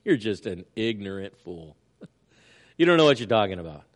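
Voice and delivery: a patient, amused God answering; gentle God's reply. Pretend. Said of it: "he looks at you and he goes".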